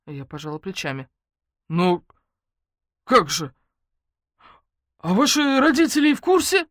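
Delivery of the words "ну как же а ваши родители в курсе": put-on high, loud incredulous old man; shocked colonel quizzing the couple; flustered colonel. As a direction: splutter it in disbelief.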